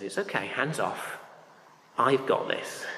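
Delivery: softly imitated calming voice; soft and settled, lightly acted reassurance; mild reassurance. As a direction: quietly take charge to calm them. Voicing God calming the anxious people.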